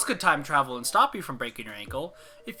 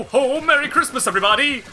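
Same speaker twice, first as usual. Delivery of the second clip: loud high voice cracking; 7 semitones higher, 9 dB louder than usual. Real, not acted. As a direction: voice breaks on the shout. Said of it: "I hope you understand how bad it cracked".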